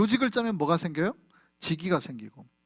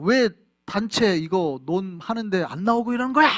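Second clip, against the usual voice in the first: raised, bossy voice imitating someone yelling; mock telling-off, louder, rising at the end; acted shouting; 3 semitones higher, 5 dB louder than usual. Villager given an armband yelling at others, mock shouting. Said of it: "막 소리치기 시작하고".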